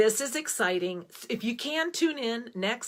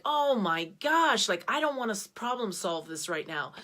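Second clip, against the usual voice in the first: mock panic. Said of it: "I'm like".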